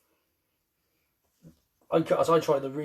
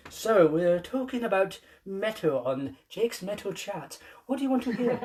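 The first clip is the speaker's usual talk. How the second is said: puffed cheeks mocking; 4 semitones higher than usual. Mock talk-show host intro.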